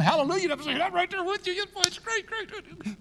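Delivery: high, excited cheering; joyful yelling. Retold or imitated. Preacher reliving baptism night, high joyful cheer. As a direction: celebrate like at the baptisms. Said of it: "They were yelling".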